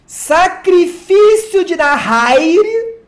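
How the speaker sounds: mock epic reveal of a card; dramatic announcer.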